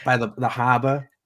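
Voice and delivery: halting, put-on Boston accent. Co-host showing off for the host, shaky attempt at Boston accent. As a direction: feel your way through a Boston accent. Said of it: "doing the whole thing in a Boston accent".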